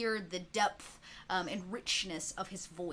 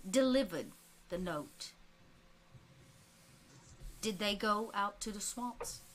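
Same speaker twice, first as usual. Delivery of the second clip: lightly voiced Southern preacher man; southern preacher accent. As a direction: lean into a Southern preacher's cadence. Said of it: "this kind of rich southern accent comes through".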